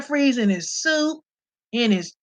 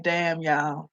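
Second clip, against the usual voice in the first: low disbelief; 9 semitones lower, 7 dB quieter, much slower than usual. Retold or imitated. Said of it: "I had to be like".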